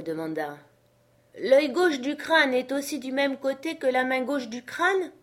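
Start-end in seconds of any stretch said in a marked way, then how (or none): 1.4-5.1 high character voice, rising question; puzzled servant. Acted. Jupiter asks his master about the skull, puzzled. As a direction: ask it in earnest puzzlement.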